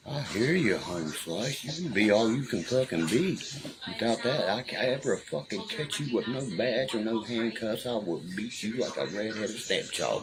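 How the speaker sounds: high-pitched, cocky trash talk; retold taunting threat. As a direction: replay a mouthy challenge, pitch swinging up. Acting out taunts in a confrontation.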